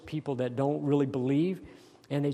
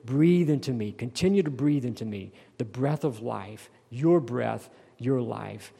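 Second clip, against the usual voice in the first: quiet prayer; 2 semitones lower than usual. Shown as a demonstration. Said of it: "just pray that over yourself".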